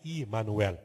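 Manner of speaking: "Imanuel" opening on an I sound; Hebrew pronunciation. Shown as a demonstration. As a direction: say "Imanuel" with initial "ee", not "eh". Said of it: "em hebraico se pronuncia".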